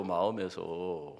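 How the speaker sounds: ordinary talk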